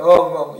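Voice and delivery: loud mock wail of 엉엉; hammed-up boo-hoo sob; imitated sobbing. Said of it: "막 울었어요". (엉엉 우는 소리 흉내)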